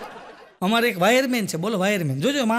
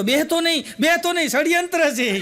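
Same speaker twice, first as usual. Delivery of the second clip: retold yell; 6 semitones higher than usual. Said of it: "તો હું રાડું પાડતો હતો".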